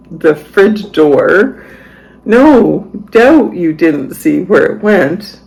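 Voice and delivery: mock-incredulous retort, pitch swinging up and down; exasperated sarcasm. Parent retelling a retort to family member about spilled milk, exasperated. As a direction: scold with sarcastic disbelief, dragging out the last jabs.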